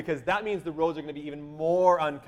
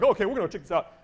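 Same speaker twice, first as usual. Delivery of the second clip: mildly chipper, a little higher; 4 semitones higher, 4 dB louder, faster than usual. Retold or imitated. Missionary jumping out at the traffic jam, mildly chipper. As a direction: lightly imitate an upbeat trip leader. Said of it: "he's chipper".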